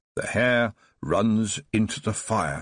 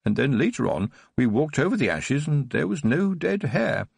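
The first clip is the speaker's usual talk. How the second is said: put-on higher, bright-eyed eager old man reliving childhood; boyish enthusiasm; 4 semitones higher than usual. Old Baron tells Tiffany his childhood memory, eager and boyish. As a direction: tell it like a thrilled boy. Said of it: "as enthusiastic as a boy".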